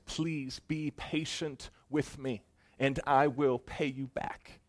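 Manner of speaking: slow, pleading plea for patience; begging servant. Acted. Servant begging the ruler for mercy, slow and pleading. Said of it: "He begins to beg".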